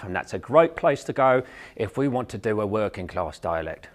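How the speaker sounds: working-class English, tongue pulled back in the mouth; working class English accent. Shown as a demonstration. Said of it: "the tongue goes back in our mouth".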